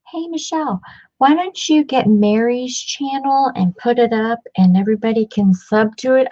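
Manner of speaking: imitating a friend. Imitating friend's silly request.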